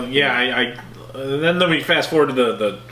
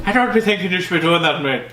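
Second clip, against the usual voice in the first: higher, hammed-up Irish; mock Irish accent; 4 semitones higher than usual. Co-host topping the impression, mock Irish accent. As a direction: exaggerate an Irish accent, pitched up. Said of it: "almost, like, Irish accent".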